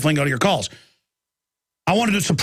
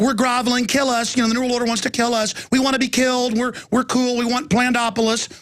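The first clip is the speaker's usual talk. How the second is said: higher-pitched imitated grovelling; mocking submissive trendy; 6 semitones higher than usual. Trendies begging the New World Order, mock grovelling. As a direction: plead lightly as a mock willing victim. Voicing what the trendies' noise means.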